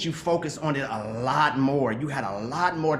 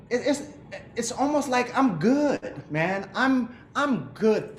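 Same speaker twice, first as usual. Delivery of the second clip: higher, slowed, half-laughing relief; laughing with emotion; 7 semitones higher, much slower than usual. Real, not acted. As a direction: let a moved laugh through the words. Overwhelmed by seeing his poster.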